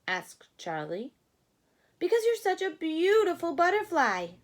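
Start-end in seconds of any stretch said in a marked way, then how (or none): 2.0-4.3 1 admiring rabbits. Acted. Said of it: "they answered".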